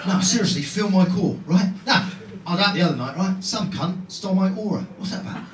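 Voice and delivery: earnest London geezer; London accent. Acted. London bloke in touch with his feminine side, London accent. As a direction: complain sincerely as a London hard man. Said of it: "imagine somebody with an accent".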